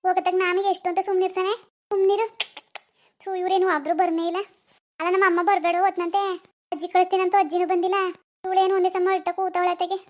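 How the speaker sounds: exasperated scolding. Acted. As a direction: complain over a crying baby. Fed up with baby's crying.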